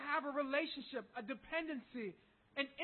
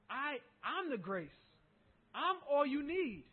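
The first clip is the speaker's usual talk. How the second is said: tender divine voice; 3 dB louder, slower than usual. Acted. Voicing God's words, slow.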